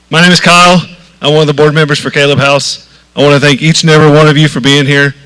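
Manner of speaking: speaking up into the mic. Real, not acted. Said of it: "Is that better?".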